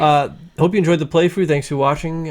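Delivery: put-on odd old-timey announcer sign-off; weird sign-off voice. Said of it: "that sounded very weird".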